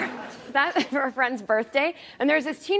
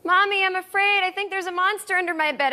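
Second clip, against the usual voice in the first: put-on scared little girl; 7 semitones higher than usual. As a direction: play a frightened little daughter calling out. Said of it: "our little daughter was in the next room going".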